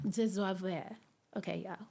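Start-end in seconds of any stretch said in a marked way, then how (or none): 0.1-0.6 "deserve" in a hammed-up French accent; playful mock-French pronunciation of "deserve"; fake French accent. Shown as a demonstration. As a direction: say "deserve" as if it were French, badly faked. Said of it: "In my little fake French".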